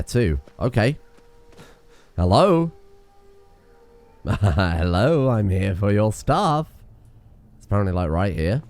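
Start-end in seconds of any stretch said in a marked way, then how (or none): 2.2-6.7 calling out. Real, not acted. Calling into the camp to find the owner, raised voice. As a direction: call out to see who's there.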